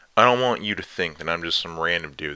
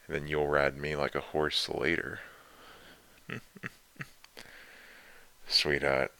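teasing dom lover; slower than usual. Acted. Dominant lover teasing listener.

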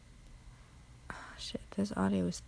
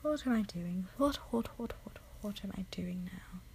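light attempt at a British accent, trailing off softer; 5 dB quieter than usual. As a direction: try on a British accent, repeating the first word. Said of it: "I try to speak in a British accent".

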